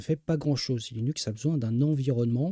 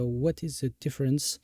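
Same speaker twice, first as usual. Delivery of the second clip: English read with a heavy French accent. Real, not acted. A French streamer reads an English title in a thick French accent. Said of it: "pardonnez-moi pour mon accent anglais totalement pourri".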